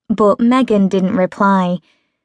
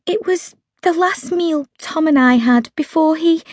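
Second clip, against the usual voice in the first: higher, lightly voiced friend Meg; Meg's voice; 8 semitones higher than usual. A narrator's reading. Narrator voicing Meg, caught out eating junk. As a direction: voice Meg as a defensive young woman.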